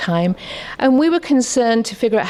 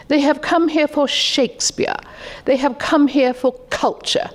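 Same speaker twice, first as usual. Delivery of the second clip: a hint of a lofty official laying down the law; posh minister; 5 semitones higher than usual. Education Secretary telling the teacher what immigrants came for, lightly posh. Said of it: "in his very posh voice".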